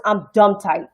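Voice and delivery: light New York accent, a little put on; a hint of New York slang delivery. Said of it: "in my New York voice".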